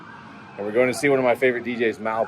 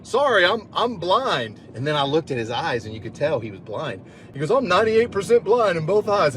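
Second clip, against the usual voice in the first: put-on old man voice; 8 semitones higher than usual. Blind old man explaining to the young man, high old voice. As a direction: play a polite elderly gent, pitched up.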